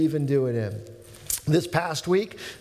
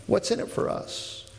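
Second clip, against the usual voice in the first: whispered; 4 dB quieter than usual. Retold or imitated. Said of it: "Peter is essentially saying".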